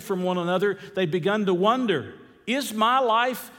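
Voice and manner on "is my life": imagined lonely person pleading, voice raised high; anguished wondering. Acted. Preacher voices lonely people wondering after lockdown, high and pleading.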